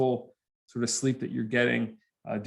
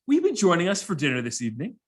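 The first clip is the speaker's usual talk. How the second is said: lightly voiced formal stewardess, higher; 5 semitones higher, faster than usual. Stewardess inviting passenger to dinner, mock formal. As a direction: imitate a polite cabin attendant. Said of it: "the stewardess is taking our dinner order".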